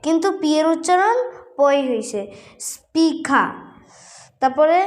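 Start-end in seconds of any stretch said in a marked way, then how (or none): 2.7-3.4 "স্পিখা" with plain p and aspirated k; careful model "স্পিখা", r dropped; silent final r. Shown as a demonstration. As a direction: say "স্পিখা" ending on a vowel, no r. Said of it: "আর উচ্চারণ করতে হবে না".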